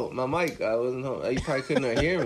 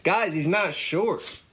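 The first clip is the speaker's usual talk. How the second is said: slow, mock-serious announcement; announcer voice; much slower than usual. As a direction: drag it out like a big proclamation. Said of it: "Why are you guys talking like that?".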